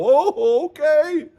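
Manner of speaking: high-pitched, eager fake agreement; mock gullible voter. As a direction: swallow it whole, in parody. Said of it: "and you guys go".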